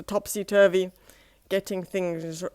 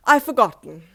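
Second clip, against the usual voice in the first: sheepish admission; 3 semitones higher, 10 dB louder than usual. Acted. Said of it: "he admitted".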